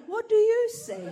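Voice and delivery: high, loud, laughing question; high mock question. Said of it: "And I go".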